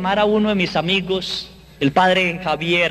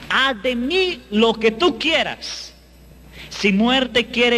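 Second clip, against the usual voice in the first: surrendering prayer; 5 semitones higher, much slower than usual. Retold or imitated.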